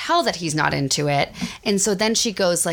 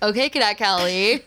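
teasing. Retold or imitated. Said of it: "I was like".

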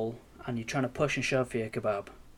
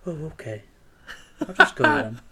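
meek, laughing; 2 semitones higher, 5 dB louder than usual. Retold or imitated. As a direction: back down timidly through laughter. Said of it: "So I said".

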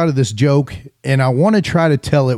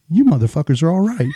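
shouting; 3 semitones higher than usual. Retold or imitated. Joke punchline, Pope exclaims.

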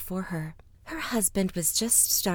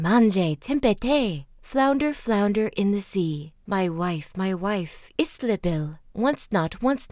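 calling out; 5 dB louder, slower than usual. Acted. Man summons the flounder from the sea, calling out. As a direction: call the rhyme out to the sea.

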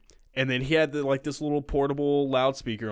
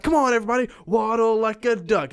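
high, loud sing-song call to the whole car, slowing on waddle like a duck; mock busker; 8 semitones higher, 4 dB louder than usual. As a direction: hype up the subway car like a kids' entertainer. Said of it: "he was like".

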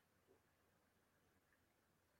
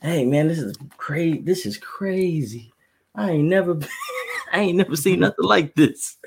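higher, louder mock-amazed tourist; fake casual; 5 semitones higher, 4 dB louder than usual. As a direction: act thrilled to hide being lost. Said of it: "my code for when I'm lost".

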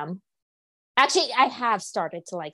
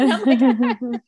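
laughing; 4 semitones higher, 4 dB louder, slower than usual. Real, not acted. Laughing at sneeze story.

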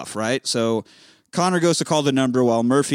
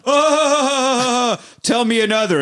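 mob boss voice; 10 semitones higher, 4 dB louder, much slower than usual. Retold or imitated. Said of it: "He says".

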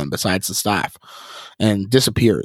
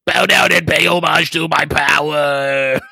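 higher, commanding evil voice; chilling voice; 6 semitones higher than usual. Acted. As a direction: demand homage coldly. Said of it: "The chilling voice pauses".

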